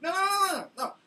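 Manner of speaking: high, loud panicked protest; mock outburst at a phone agent; frantic no. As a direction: cut them off in a rising panic.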